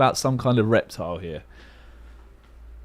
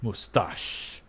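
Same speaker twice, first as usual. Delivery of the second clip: whisper; 3 semitones lower, 6 dB quieter than usual. Real, not acted. Repeating a guess under breath.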